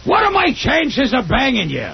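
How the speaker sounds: high, slow, laughing comic voice; imitating Gilbert's blunt pickup line; Gilbert Gottfried impression. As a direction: squeal it out slowly through laughter. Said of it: "that's a great Gilbert Gottfried impression".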